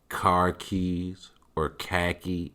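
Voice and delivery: slowed, drawn-out Boston accent. Shown as a demonstration. Joking about how a puppy name sounds in Boston, Boston accent. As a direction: say it slowly, imitating a Boston accent. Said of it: "when you yell it, it sounds like".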